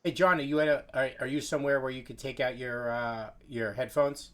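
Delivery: muffled voice like through a mask; through a face mask. Real, not acted. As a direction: sound muffled, as if behind a mask. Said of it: "it's like you're talking through a mask".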